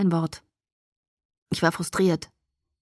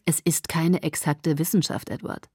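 soothing; 3 dB quieter than usual. Acted. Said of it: "Carlyle sagte beschwichtigend".

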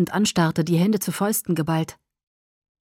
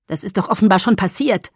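cutting; 5 dB louder than usual. Acted. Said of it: "sagte Edward schneidend".

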